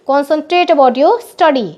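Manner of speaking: each word laid out slowly for copying; slow dictation. Shown as a demonstration. Teacher repeating the phrase slowly for pupils. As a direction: dictate the line slowly, unhurried. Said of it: "कैसे बोलेंगे?".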